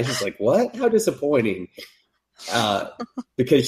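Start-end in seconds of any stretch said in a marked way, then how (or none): 0.4-1.7 mock disappointment. Cupid voiced in recap.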